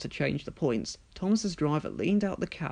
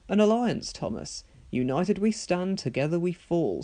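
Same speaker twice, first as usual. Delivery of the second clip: grand; 4 semitones higher than usual. Acted. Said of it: "said Gordon grandly".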